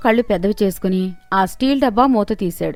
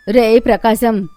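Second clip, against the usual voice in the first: lightly voiced old woman calling out, a touch louder; 6 dB louder than usual. Old woman calling to the thief with a trick. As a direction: call out slyly through the house.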